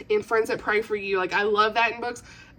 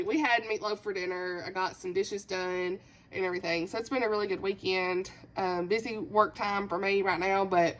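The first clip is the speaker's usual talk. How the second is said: subdued; 7 dB quieter than usual. Real, not acted. Settling down after the emotional outburst.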